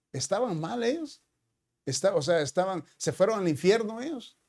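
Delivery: lightly voiced anxious mother questioning her son; voicing his mother.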